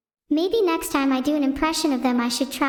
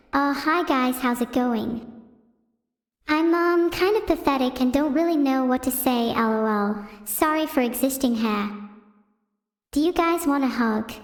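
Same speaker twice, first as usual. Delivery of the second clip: bad impression. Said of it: "I'll do a really bad impression of Numi first".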